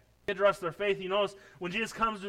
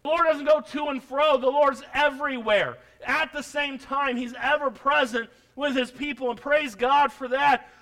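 louder, rising preacher's shout; full-voiced preaching, louder; 6 semitones higher, 8 dB louder than usual. Real, not acted. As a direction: preach it out loud to the church.

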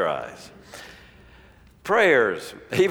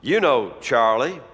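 earnest praying man; 3 semitones higher than usual. Retold or imitated. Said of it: "in his prayer".

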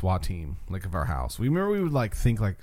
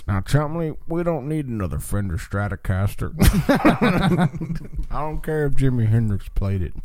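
put-on old man voice; 3 dB louder than usual. Pawn shop old man bit.

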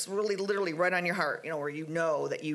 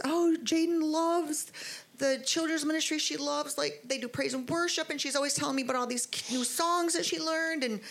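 imitating coworker; 9 semitones higher than usual. Coworker's story of her daughter retold.

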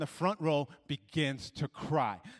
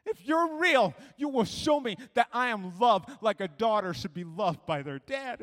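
high, loud desperate cry upward; acted anguished yell, easing toward the end; yelling at God; 7 semitones higher, 6 dB louder than usual. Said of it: "I even yelled at God".

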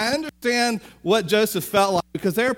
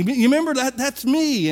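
higher and a bit louder, eager; eager reminder; 4 semitones higher, 3 dB louder than usual. Retold or imitated. Joseph eagerly reminds his brothers who he is. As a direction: push the memory with excitement. Joseph excitedly proving identity.

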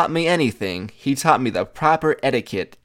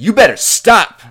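a mock angry father's yell, much higher and louder; imitated yelling; 9 semitones higher, 9 dB louder than usual. Her father to the visitor outside the house, imitated yelling. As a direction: yell it like an irate dad warning someone off. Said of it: "he starts yelling at me".

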